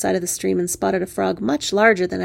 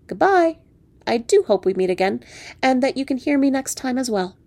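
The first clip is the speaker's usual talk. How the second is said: departing frog prince; 5 semitones higher than usual. Acted. Frog bids farewell.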